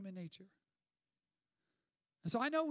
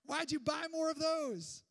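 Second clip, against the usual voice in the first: self-scolding; 3 semitones higher, 6 dB louder than usual. Retold or imitated. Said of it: "we thought to ourselves".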